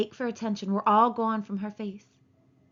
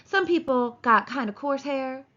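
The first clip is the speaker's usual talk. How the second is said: smug, self-satisfied and a bit higher; complacent; 5 semitones higher, 4 dB louder than usual. Acted. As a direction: say it pleased with herself. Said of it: "she said complacently".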